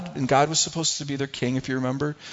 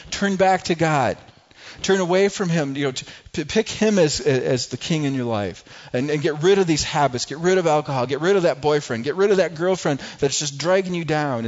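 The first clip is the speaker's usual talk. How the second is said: raised, earnest camp-speaker plea; pleading youth leader; 2 semitones higher than usual. Retold or imitated. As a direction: plead with the students to turn back. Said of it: "they're pleading with adults, saying".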